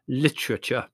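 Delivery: a touch of firm conviction. Acted. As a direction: state it as the obvious answer. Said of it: "said Larry with conviction".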